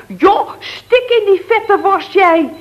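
high, mock shout; retold shout. Woman yelling at her partner at cards. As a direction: hurl it at him across the card table. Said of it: "ik schreeuw van".

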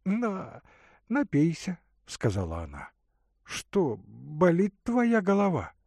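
put-on a caring young woman offering water; Katerina's voice.

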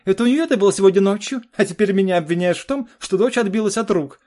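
очень высоко и громко, с вызовом; огрызайся в ярости; гневно. Acted. Жена кричит на мужа. (жена кричит на мужа, высоко и громко)

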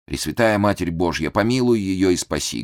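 usual speaking voice

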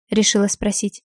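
usual speaking voice

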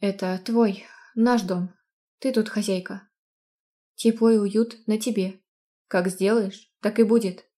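a fond fiancé reassuring her; loving groom voice. Acted. Groom Din voiced in story.

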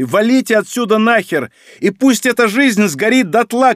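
high, loud desperate yell; shouting. Acted. Okhayasi yells at comrades to get out, high loud shout. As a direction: scream it over the lightning. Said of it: "кричал он".

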